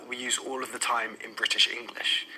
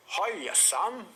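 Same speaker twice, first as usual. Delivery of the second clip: higher, rising friendly hiya; lightly voiced mate returning a greeting; friend greeting back; 6 semitones higher than usual. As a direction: lilt it up like a casual hello. Friend greets back in acted dialogue.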